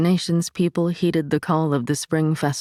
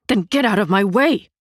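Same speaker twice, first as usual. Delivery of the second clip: growling retort; 5 semitones higher, 5 dB louder than usual. A narrator's reading.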